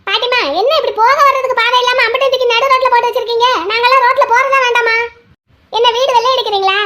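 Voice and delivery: indignant complaint. Acted. Passer-by complains about blocked road. (எரிச்சலோடு கேள்வி கேட்பது)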